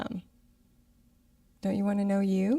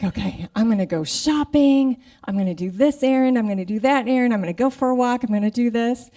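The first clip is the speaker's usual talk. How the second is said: restless, eager listing, much louder and higher; retold antsy energy, loud and bright; 4 semitones higher, 8 dB louder than usual. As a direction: rattle off plans all fired up. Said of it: "I've just been feeling antsy".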